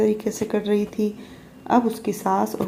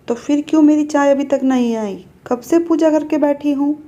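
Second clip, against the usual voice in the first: higher, louder scolding complaint; mother-in-law scolding over late tea, raised and loud; 5 semitones higher, 4 dB louder than usual. Acted. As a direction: nag her sharply about the tea.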